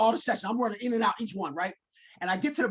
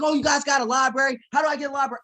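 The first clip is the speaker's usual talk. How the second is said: higher, wide-eyed eager question; happy; 5 semitones higher, 4 dB louder, faster than usual. Retold or imitated. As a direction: marvel at a library like a kid. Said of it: "I'm just happy to be in college".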